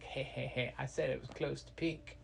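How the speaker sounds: soft, acted sneaky chuckle into the line; sly snicker. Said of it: "he started laughing".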